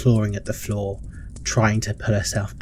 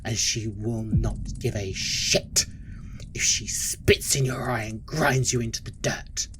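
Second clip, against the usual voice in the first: stern matron, hushed. Acted. Matron explains her cruelty to Ebony, hushed and stern.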